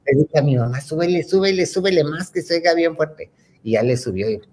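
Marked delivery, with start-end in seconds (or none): 0.8-3.3 pitched-up, insistent pleading; eager child urging. Retold or imitated. Retelling how she told her mom to turn it up, eager. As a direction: urge it on excitedly, higher voice.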